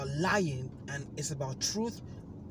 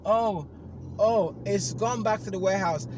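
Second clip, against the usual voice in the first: flustered agent; 5 semitones higher, 8 dB louder than usual. Retold or imitated. Company agent voiced in story.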